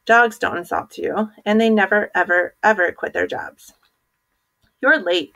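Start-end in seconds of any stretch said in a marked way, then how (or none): 4.8-5.3 coach's bark. A narrator's reading. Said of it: "barked Coach Drago".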